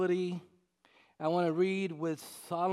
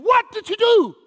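much higher, much louder accusing what did you do; wife's angry demand; 14 dB louder than usual. Retold or imitated. Wife confronting her husband a second time, high and furious. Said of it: "She said it again".

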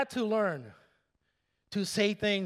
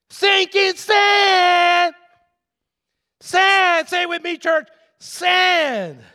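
shout; 9 semitones higher, 10 dB louder, much slower than usual. Acted. Shouted refrain to church.

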